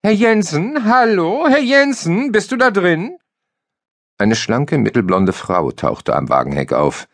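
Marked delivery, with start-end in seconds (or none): 0.0-3.2 high female voice calling; calling into the van, high and bright; woman calling out. A narrator's reading. A woman calling for Jensen, high call. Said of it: "eine Frauenstimme ertönte".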